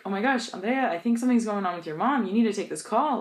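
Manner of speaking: high, fast panicked rush; alarmed friend rushing to her with news. Retold or imitated. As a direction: blurt it out in a panic. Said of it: "became panicked".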